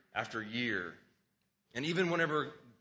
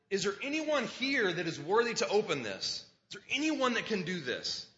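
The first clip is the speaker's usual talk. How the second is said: higher-pitched retold call; angel crying out; 6 semitones higher than usual. Preacher paraphrases the angel seeking someone worthy, higher crying-out call. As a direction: call it out as a question to all, mildly raised. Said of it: "the angel cries out and says".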